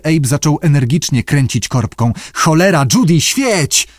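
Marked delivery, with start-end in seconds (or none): 2.3-3.9 high, urgent cursing command; exasperated order. A narrator's reading. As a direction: swear and demand it at raised pitch. Abe klnie, nagli Judy. (zirytowany, naglący okrzyk)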